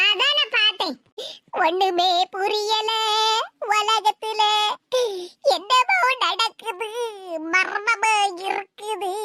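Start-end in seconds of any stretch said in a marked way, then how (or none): 1.7-9.1 slow mock mystery. Mock-mysterious musing aside.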